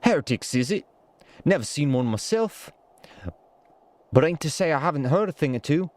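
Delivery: bad Irish accent read from a script; lightly put-on Irish soldier voice; attempted Irish accent. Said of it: "This is such a terrible voice".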